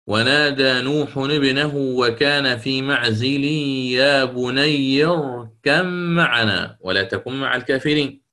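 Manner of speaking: slow, measured recitation of the verse; Quranic recitation. Shown as a demonstration. Teacher recites the verse to his students, slow and measured. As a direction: recite it slowly, drawing each word. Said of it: "قال تعالى".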